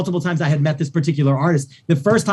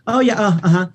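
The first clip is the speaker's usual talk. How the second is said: higher, offhand mock uh-huh; dismissive; 5 semitones higher than usual. Diva brushing off Damon at a nightclub, mock dismissive. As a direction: brush him off without interest. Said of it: "just so dismissive".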